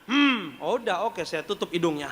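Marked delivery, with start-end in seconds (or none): 0.0-0.6 closed-mouth refusing hum; gumaman menolak. Retold or imitated. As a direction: hum back with lips sealed, imitating refusal. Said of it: "dia tutup mulutnya". (gumam dengan mulut terkatup)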